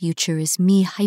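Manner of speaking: ordinary delivery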